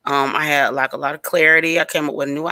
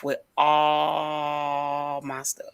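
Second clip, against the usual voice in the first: slow, breathy near-sob whisper; crying whisper; 6 dB quieter, much slower than usual. Real, not acted. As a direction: let it crack into tears, barely voiced. Retelling her stuff being stolen.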